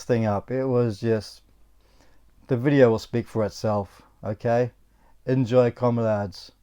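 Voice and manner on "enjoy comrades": a slow, lightly hammed-up hint of a Russian accent; bad Russian accent. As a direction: sign off to the viewers in a mock Russian accent, slowly. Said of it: "It's a really bad Russian accent".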